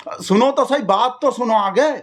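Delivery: high-pitched insistence on being heard; exasperated plea. Acted. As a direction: cut in on the caller, exasperated. Cutting in on interrupting caller.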